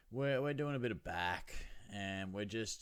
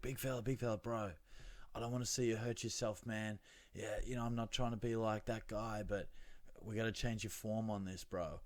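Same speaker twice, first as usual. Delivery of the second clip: put-on light American accent, gym bro; a casual American gym guy; 4 dB quieter than usual. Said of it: "I'm just giving him an American accent for fun".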